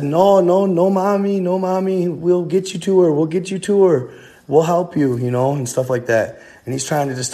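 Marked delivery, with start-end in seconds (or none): 0.0-5.2 high-pitched, urgent mock pleading; imitating someone freaking out. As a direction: act out frantically talking a child down. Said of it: "He's freaking out".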